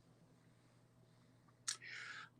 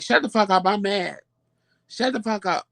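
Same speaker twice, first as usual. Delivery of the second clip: mildly imitated angry husband, higher pitch; mad husband; 5 semitones higher than usual. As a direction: snap lightly, mimicking an irritated husband. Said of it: "when Tramel get mad".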